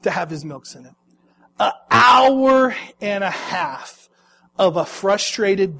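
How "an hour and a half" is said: anguished wail. Real, not acted. Despair over long drive.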